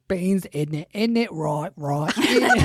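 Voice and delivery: put-on English accent. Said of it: "that guy on ... where he's like".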